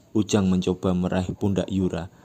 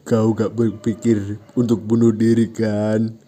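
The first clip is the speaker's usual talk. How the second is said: concerned friend; 3 semitones higher, 7 dB louder than usual. Acted. Ucok checks on Ujang.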